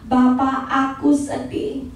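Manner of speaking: quiet, slow, saddened plea to the Father; soft sad confession. Shown as a demonstration. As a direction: say it slowly and softly, near tears. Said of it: "Dengan berkata". (lirih dan pelan, sedih)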